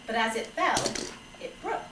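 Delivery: measured picture-book reading; story narration. Acted. Father reading a fable to children, measured storytelling. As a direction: read it like a gentle fable, phrase by phrase.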